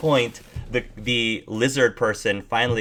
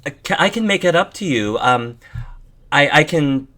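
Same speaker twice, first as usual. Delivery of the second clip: higher, quick hopeful offer; shy bat woman; 5 semitones higher than usual. Acted. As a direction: offer lunch as thanks.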